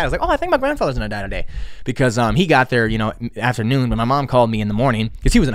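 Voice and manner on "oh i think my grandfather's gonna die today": fast, casual throwaway line; offhand. Retold or imitated. To Tate, blurting it out quick and casual. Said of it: "But I said it like that".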